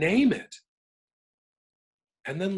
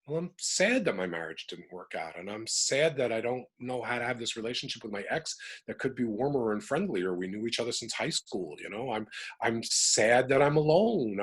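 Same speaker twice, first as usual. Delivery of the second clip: sad musing. Shown as a demonstration. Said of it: "I change the word to".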